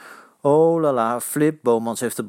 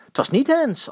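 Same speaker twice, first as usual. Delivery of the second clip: shouting back; 13 semitones higher than usual. A narrator's reading. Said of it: "antwoorden de Vitessers".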